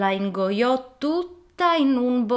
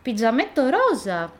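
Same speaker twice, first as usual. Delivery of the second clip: put-on higher, brighter little girl answering; girl's own voice; 4 semitones higher, 4 dB louder than usual. Girl tells the wolf her name in her own higher child's voice. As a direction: say your name like an innocent child. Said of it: "rispose lei".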